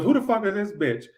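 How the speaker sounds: put-on Friday girlfriend. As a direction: act the jealous girlfriend confronting Felicia. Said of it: "And she goes".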